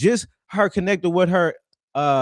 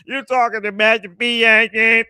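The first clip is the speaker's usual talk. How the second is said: a hammed-up Simon over a cheap microphone; mocking Simon; 3 semitones higher, 6 dB louder than usual. Mocking Simon's mic voice to the stream, raised. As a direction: mimic Simon's voice through a bad mic, raised. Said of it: "how he talk on that bullshit ass microphone".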